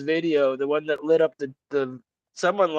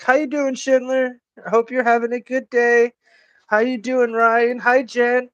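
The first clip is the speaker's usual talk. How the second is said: nice voice to women; 7 semitones higher than usual. Retold or imitated. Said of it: "that's just like me going".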